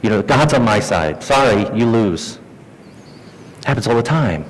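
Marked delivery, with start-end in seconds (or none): 0.2-2.4 slow, self-satisfied dismissal; smugly closing the argument; smug God card. Acted. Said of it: "they pull out the God card".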